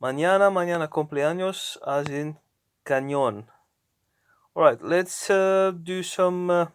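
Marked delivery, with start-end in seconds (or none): 0.0-1.8 "Mañana" and "cumpleaños" with ny for ñ; clear Spanish ñ. Shown as a demonstration. Teacher giving examples of ñ, clear ny sound. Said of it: "almost sounds like ñ in cañón". 2.9-3.5 "cañón" said ca-NYON; n glides into y in "cañón", stress on the end; clear Spanish ñ. Shown as a demonstration. Teacher giving an example of ñ, clear ny sound. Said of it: "almost sounds like ñ in cañón".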